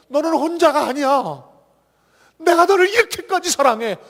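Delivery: 사랑을 외치듯; Jesus' reassurance. Retold or imitated. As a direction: tell them firmly they are not alone. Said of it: "그걸 보여주시기 위해서".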